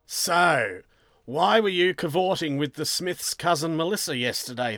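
spring the evidence on the suspect; accusing question. Acted.

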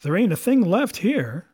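frustrated pirate; pirate sailor. Acted. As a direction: complain like a searching pirate. Merry searching bones.

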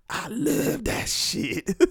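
high, soft, very drawn-out relish; mock gushing enthusiast. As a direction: put on someone savouring it far too much. Imagined fan of it gushes.

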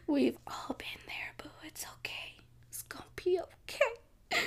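soft whisper, slowed down; whispered comfort. Pretend. Vlogger whispering comfort to a heartbroken singer. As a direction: hush him like a heartbroken friend.

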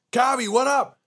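high, loud call across the street; excited fan shout. Retold or imitated. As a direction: holler at your childhood idol. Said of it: "and I freak out".

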